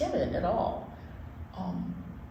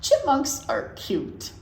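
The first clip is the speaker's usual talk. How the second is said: put-on reading to children. Host reading chipmunk book to listening kids, lilting story-time voice. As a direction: read it aloud like story time for little ones.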